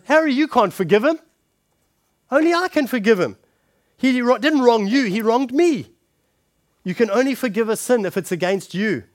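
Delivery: the victim pushing back, lightly voiced; indignant Dick. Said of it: "Dick's gonna say something along the lines of".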